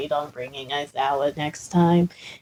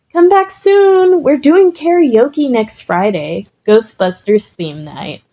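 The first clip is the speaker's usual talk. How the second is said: cheerful calling; 6 semitones higher than usual. Acted. Cheerful ghost calling goodbye.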